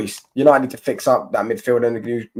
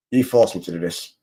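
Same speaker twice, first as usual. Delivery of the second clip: lower, hammed-up menacing voice; mock villain; 5 semitones lower than usual. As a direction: play the cartoon baddie, low and grave. Repeated mock threat.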